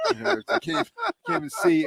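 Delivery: helpless high-pitched laughter; laughing so hard it hurts; eyes watering from laughing. Real, not acted. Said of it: "and now my eyes are watering".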